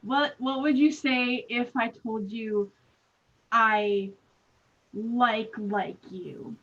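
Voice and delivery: awkward confession with long pauses; shy confession. Acted. Acted shy love confession.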